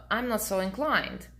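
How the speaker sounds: a curt, cool brush-off; understated dismissive reply; cool refusal. Shown as a demonstration. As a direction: shut him down without warmth. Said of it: "Just like this".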